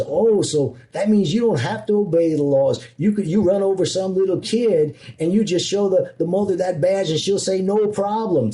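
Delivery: put-on Southern cop accent. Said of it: "did you like that Southern accent".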